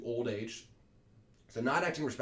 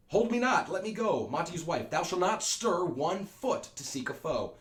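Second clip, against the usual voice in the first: struggling rage; 7 semitones higher, 5 dB louder than usual. Acted. Montague struggling, wife restrains.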